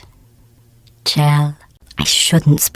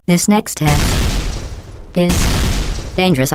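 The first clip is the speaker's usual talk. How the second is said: slow ominous warning; 3 semitones higher, much slower than usual. Acted.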